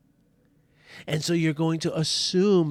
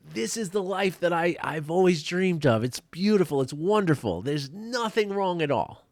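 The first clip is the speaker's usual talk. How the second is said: higher-pitched, recalled elation; retelling a blissful high; absolutely elated; 5 semitones higher than usual. Retold or imitated. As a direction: lift it up, savouring the bliss. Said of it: "just absolutely elated".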